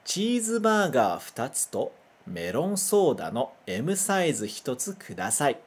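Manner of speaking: careful Japanese read-aloud; Japanese sentence reading. Shown as a demonstration. Teacher modelling a fast-food order for students. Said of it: "Me acompanha".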